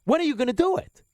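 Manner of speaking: rising exasperated "When are you gonna do it?"; exasperated demand. Real, not acted. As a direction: push the question harder. Repeats demand, raised.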